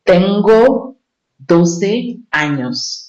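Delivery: "Tengo doce años" said slowly and clearly in Spanish; slow careful Spanish; Spanish model phrase. Shown as a demonstration. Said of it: "They will say something like".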